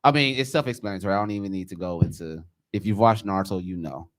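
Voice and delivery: muffled behind a mask; talking through a face mask. Real, not acted. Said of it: "but excuse the mask".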